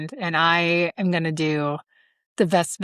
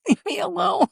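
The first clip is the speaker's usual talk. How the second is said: mock exasperation; 14 semitones higher than usual. Mom snapping at kids.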